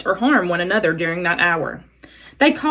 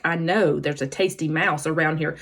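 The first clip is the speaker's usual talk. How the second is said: slow, soft, lower snake hiss; 4 semitones lower, 6 dB quieter than usual. Acted. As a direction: hiss it slowly to yourself. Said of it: "Snakes often hissed to themselves".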